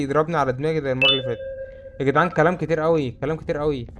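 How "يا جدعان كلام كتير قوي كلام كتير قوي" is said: exasperated. Real, not acted. Complaining about long text.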